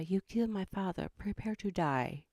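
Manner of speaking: lightly voiced movie avenger; a hint of film swordsman; Inigo Montoya. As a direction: deliver the revenge line with understated mock menace. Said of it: "trying to do, shoot, now what's his name?".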